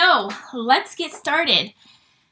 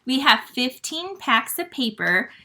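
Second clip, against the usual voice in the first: deliberate, each word given more room; slowed down after rushing. Real, not acted. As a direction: say it again at a measured pace. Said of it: "Sorry, I'm talking really fast".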